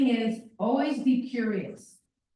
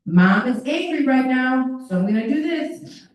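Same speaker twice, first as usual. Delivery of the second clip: mom naming her anger out loud, louder; firm calm announcement; 4 semitones higher, 6 dB louder than usual. Shown as a demonstration. Mom shows her son she is angry, firm and louder. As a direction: say it clearly and a bit louder. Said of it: "And you say".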